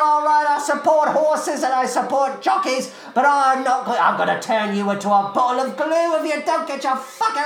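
furious cockney heckling. Acted. Eliza screams at horse and jockey mid-race, furious cockney. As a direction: bellow abuse like a raging cockney punter.

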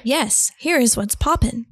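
flat robot voice; stiff, even robot voice reading. Acted. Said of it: "I'm talking like a robot".

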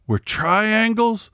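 high, slow mock announcer voice; mocking the ad guy. Mocking the Doritos ad announcer with a high, slow voice. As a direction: stretch it out like a smug ad voice. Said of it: "And then the guy says".

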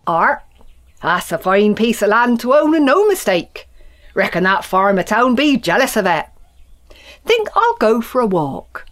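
farmer voice. Acted. Farmer talks to himself.

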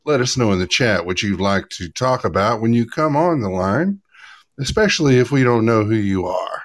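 lightly put-on cabin announcement voice; flight attendant voice. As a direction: read it like a polite in-flight announcement. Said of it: "Did you like the flight attendant voice?".

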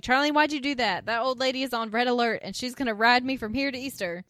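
animated retold reproach; exasperated. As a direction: act out his annoyed complaint to a meddler. Retold scolding after grandmother's phone call.

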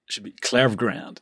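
Klevgrand said the American way, KLEV-grand; standard American accent. Shown as a demonstration. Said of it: "if I use my American voice".

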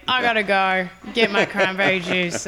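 put-on Australian accent, breezy exit. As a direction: brush them off in a mock Australian accent. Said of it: "working on my Australian accent".

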